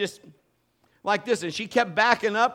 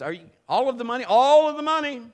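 demanding question; 7 semitones higher, 8 dB louder, faster than usual. Retold or imitated. Peter confronting with the money.

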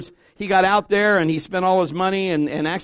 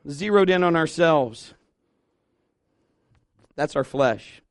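ordinary delivery

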